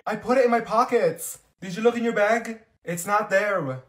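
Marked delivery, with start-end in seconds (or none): none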